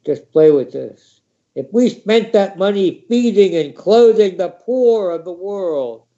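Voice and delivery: lightly voiced comedian closing a stand-up set; a hint of a comic preaching his vision to the crowd; Bill Hicks. Comic sharing a peace vision with his audience, mildly impassioned. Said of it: "Bill Hicks".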